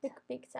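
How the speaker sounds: "pizza" said with a k sound, "PIK-sa"; mispronounced pizza. Retold or imitated. Showing a friend how people mangle it, mispronounced pizza. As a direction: say "pizza" as "piksa", trying out the mistake. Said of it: "le dicen como pizza".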